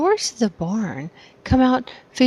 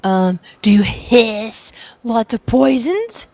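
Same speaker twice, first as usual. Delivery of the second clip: conspiratorial whisper; slower than usual. Acted. Player character interrogating the dragon.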